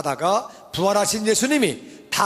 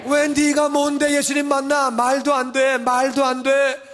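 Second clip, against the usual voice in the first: mocking scoff; 4 semitones higher, slower than usual. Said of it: "mocking hard hearts".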